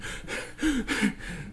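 long, high, deflated sigh; exasperated sigh. Retold or imitated. Pastor showing his reaction to the hot dog, big sigh. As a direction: let all the frustration out in one breath. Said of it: "And I'd be like".

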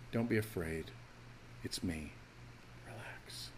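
soft, low, gentle voice fading to a whisper; calm a frightened friend tenderly; hushed comforting words; gentle reassurance. Retold or imitated. Jesus calming frightened disciples.

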